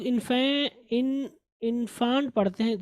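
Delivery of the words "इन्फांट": इन्फांट with a long aa; mispronunciation demo. Shown as a demonstration. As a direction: say इन्फांट wrongly as in-FAANT. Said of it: "जो कि गलत है".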